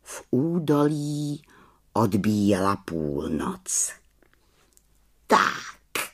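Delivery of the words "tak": contented exclamation; understated pleased witch; satisfied little witch. A narrator's reading. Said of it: "spokojeně zvolala malá čarodějnice".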